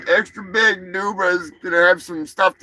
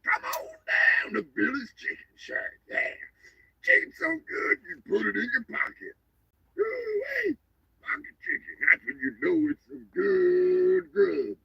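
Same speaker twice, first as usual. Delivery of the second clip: put-on Southern accent; 7 semitones higher, 8 dB quieter than usual. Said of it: "Put on my best Southern accent".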